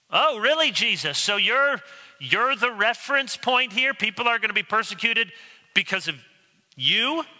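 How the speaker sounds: high-pitched disbelieving questions; incredulous challenge. Acted. Skeptical hearer questioning Jesus' claim, incredulous. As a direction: question it as if you can't believe your ears.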